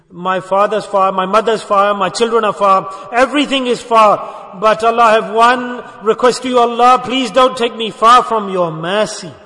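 impassioned retold plea, stretched and insistent; crying out. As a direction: imitate a desperate man calling on God for mercy. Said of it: "he's crying out to Allah's mercy".

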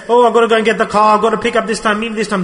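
lightly mimicked busy father, rushed; meşgul baba taklidi. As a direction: hurry through it like a busy dad on the phone. Mimics a busy phone-obsessed father.

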